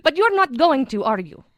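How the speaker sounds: proper British RP; crisp received pronunciation, wistful; a hint of RP British; RP accent. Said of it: "Proper, R P".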